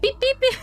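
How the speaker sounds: high mock beeping; monitor beeps. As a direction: imitate a heart monitor in a squeaky voice. Imitating the heart monitor.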